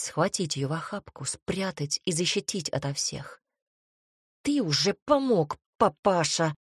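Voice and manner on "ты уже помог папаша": snarling at him, a touch raised; angry mother bird's snarl; growled. Acted. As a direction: growl it out at the father. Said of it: "рыкнула она".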